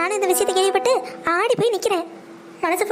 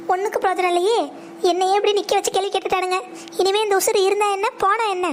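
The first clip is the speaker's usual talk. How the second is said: fake sobbing lament. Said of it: "நம்ம acting work out ஆகுது".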